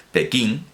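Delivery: "Pekín" with a nasal final ng, like pekiŋ. Shown as a demonstration. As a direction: say "Pekín" ending in a back nasal ng sound. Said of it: "con esa N gangosa".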